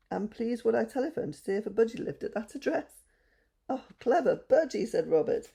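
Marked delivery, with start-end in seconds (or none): 3.7-4.9 high, loud happy praise; delighted. A narrator's reading. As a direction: burst out with joy. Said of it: "delighted at the news".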